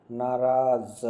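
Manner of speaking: "नाराज" with a buzzing z at the end, "naaraaz"; nukta pronunciation. Shown as a demonstration. Teacher shows students the missing nukta, lingering z sound. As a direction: draw out the final z of "नाराज". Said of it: "ये नुक्ता संबंध कोई ध्यान नहीं".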